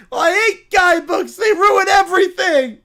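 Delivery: loud sulky complaint; petulant rant. Acted. Pilgrim complaining to the guide, loud sulky rant. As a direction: throw a tantrum about guidebooks.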